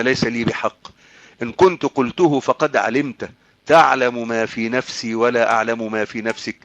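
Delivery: measured scriptural recitation, falling away at the end; Quran recitation. Acted. Preacher quoting God questioning Jesus, Quran recitation. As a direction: recite the verse formally in classical Arabic.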